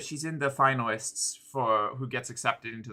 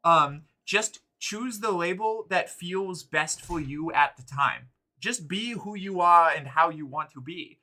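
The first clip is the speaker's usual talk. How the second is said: uwu voice. Real, not acted. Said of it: "this fucking speech in the uwu voice".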